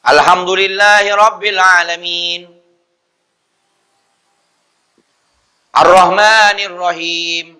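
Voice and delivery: recited verses with a long silence after "alamin"; chant-like verses broken by a lengthy gap; overlong pause. Shown as a demonstration. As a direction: hold "alamin", then stop far too long before "Ar-Rahmanir". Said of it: "berhenti terlalu lama".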